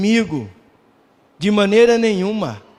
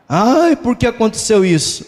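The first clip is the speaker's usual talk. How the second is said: mock lament; 4 semitones higher than usual. Preacher mimics a believer lamenting a loss, mock whiny moan. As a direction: imitate someone moaning over bad luck. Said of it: "Eu não vou ficar lamentando".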